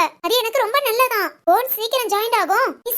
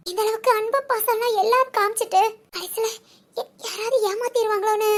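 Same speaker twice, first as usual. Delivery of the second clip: tearful. Acted. Woman confesses to her friend her fear of being betrayed, tearfully. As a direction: let the voice crack as the fear comes out.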